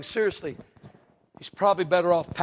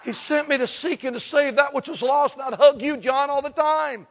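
higher-pitched, mildly exasperated pleading; mock exasperation; 4 semitones higher than usual. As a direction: play at setting a clingy friend straight. Jesus voiced, fed up with hugs.

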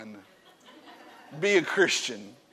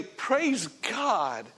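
glad blessing; 5 semitones higher than usual. Pretend. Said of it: "you ought to say".

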